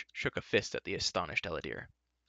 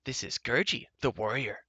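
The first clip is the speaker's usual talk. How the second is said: Gurgi, bold; 2 semitones higher than usual. A narrator's reading. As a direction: announce yourself proudly as a little creature. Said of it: "Gurgi boldly cried".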